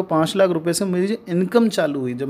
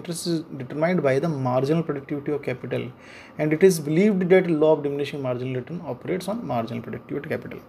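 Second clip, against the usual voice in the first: slow textbook reading; much slower than usual. Shown as a demonstration. Teacher reading the rule to his class, slow and deliberate. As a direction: read the textbook sentence slowly, word by word. Reads textbook passage slowly.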